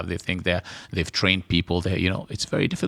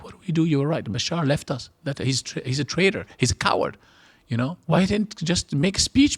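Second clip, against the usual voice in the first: mock desperate relatives, pitched much higher; quoting family members; 8 semitones higher than usual. Exiled relative mimicking family on the phone, high desperate voice. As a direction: voice the panicked relatives, high and pleading. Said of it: "And today they all like".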